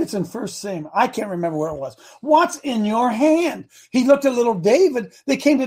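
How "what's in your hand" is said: drawn-out, higher emphatic question; slow, weighty question with raised pitch; slow retold question. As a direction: quote it slowly, stretching each word. Voicing God to Moses, emphatic.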